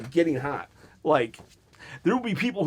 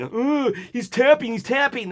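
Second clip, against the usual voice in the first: mock whine; 5 semitones higher than usual. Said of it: "mocking the tap-out scene".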